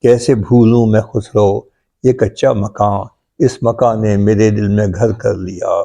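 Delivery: measured, metrical mushaira delivery; poetry recitation. Acted. Poet shares his ghazal with appreciative friends, reciting. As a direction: recite each line in rhythm, repeating it for the listeners.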